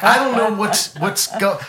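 mock-flustered protest breaking off. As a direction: re-enact a panicked fan at a loss. Acted flustered fan being confronted.

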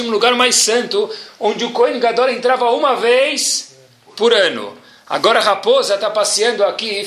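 how can you not weep; pained disbelief. Retold or imitated.

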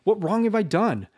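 high, heated self-defence; indignant, rising questions; agitated protest. Acted. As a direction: throw her plea back at her. Raskolnikov bitterly defends himself.

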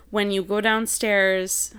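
a touch of Wisconsin in "downstairs"; slow Wisconsin-flavored "go downstairs"; light Upper Midwest accent on "downstairs". Real, not acted. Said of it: "that was very Wisconsin-y how I just said that".

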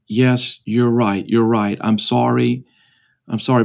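murky, just-roused father lightly voiced; dazed apology. Father apologizing to the businessman as if emerging from a fog, dazed. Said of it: "as if emerging from a fog, and, like, waking up".

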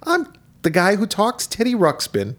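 high-pitched toy bear voice; high, put-on children's character voice; Teddy Ruxpin. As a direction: introduce yourself like a talking teddy. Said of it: "who did the voice".

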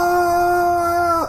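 long, high, sustained falling-to-hell scream; mock scream. Film characters falling towards hell, drawn-out mock scream. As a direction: imitate an endless scream, held on one note. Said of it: "They're screaming like".

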